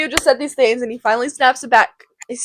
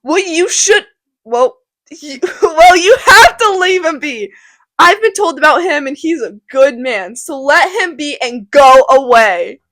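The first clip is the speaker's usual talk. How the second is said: stern Capulet; 3 semitones higher, 6 dB louder than usual. Acted. Capulet telling Tybalt to leave Romeo, half-laughing command. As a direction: order him to leave it be.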